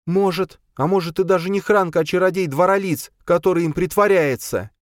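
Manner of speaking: put-on high, steady resolute girl; calm, unshakable decision; Charna, firm. Charna fed up with the quarrel, firm and high.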